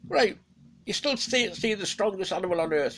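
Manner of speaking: a cunning god baiting the wolf; Odin. Acted. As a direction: Odin baits Fenrir, high and loud. Odin voiced in told myth.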